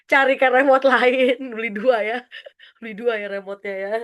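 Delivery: laughing through the words; loud start dissolving into chuckles; real amusement at the suggestion; amused. Real, not acted.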